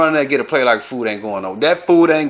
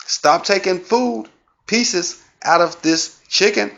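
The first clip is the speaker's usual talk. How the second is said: slow, higher stern granny; 5 semitones higher, slower than usual. Pretend. Grandma guarding the chicken, slow stern granny voice. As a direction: drag it out like a fussing grandma. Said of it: "This from Granny".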